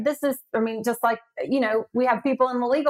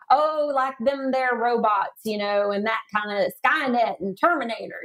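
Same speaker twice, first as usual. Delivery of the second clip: put-on Southern accent. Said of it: "expand upon my Southern accent".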